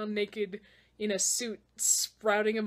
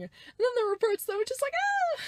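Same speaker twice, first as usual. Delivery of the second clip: frustrated outburst; 14 semitones higher, faster than usual. Real, not acted.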